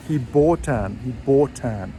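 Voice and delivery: "bought an" joined, the T flowing into "an"; linked bought an. Shown as a demonstration. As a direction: say "he bought an" as one word. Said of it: "the T of bought will join the A".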